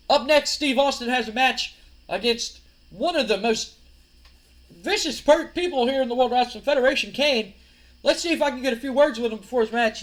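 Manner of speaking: high, projected announcer voice; backstage announcer. Acted. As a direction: introduce the next match like a TV interviewer. Acted backstage announcer introducing a match.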